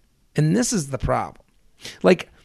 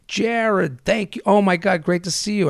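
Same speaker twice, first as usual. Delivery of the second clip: imitating gushing friend; 5 semitones higher than usual. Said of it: "he goes".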